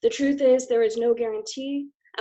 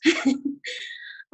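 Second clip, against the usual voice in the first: nervous laugh; 8 semitones higher than usual. Real, not acted. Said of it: "sorry, I'm a bit nervous".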